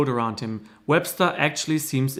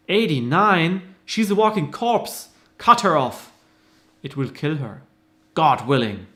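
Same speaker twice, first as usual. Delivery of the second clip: scoffing boss; 2 semitones higher than usual. Acted. Boss scoffs at old claimant.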